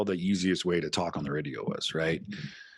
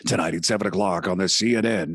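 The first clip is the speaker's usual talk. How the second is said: radio announcer; 5 dB louder than usual. Retold or imitated. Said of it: "I was".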